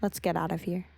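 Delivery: defeated. Acted. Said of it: "She turned around in defeat".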